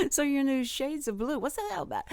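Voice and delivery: high-pitched, nosy contestant imitation; mock an overfamiliar chatterbox quizzing the judges; cocky. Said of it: "she was just real cocky".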